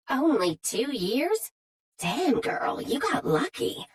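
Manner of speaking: bubbly, high Southern drawl, gushing over the place; a Southern belle gushing with delight; gushing southern accent. A narrator's reading. Mandy in southern voice.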